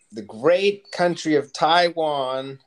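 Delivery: a mock-solemn salute to the great country; grand proclamation. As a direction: proclaim it like a state address. Grand shout-out to Taiwan.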